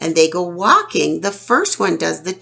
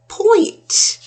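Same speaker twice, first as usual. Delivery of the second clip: high excited; 4 dB louder than usual. Shown as a demonstration. Pointing, repeats word high.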